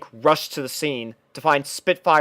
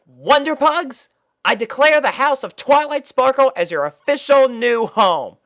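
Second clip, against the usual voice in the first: proud; 11 semitones higher, 4 dB louder than usual. Acted. Rainbow Dash announces to the puppies, proud and grand. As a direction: declare it like a royal decree. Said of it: "speaking proudly".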